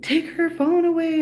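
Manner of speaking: loud, high command; a sharp order to take her phone; barked order. Retold or imitated. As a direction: snap the order at the staff. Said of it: "and he's like".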